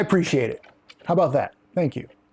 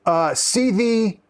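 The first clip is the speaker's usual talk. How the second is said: Yorkshire saying; 4 semitones higher, much slower than usual. Shown as a demonstration. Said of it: "a proper Yorkshire saying".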